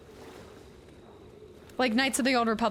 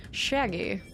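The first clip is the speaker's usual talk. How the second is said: lightly drawled Texan Shaggy; Texan accent. Shown as a demonstration. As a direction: say the name like a Texan. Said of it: "if you were to pronounce it with a Texan accent".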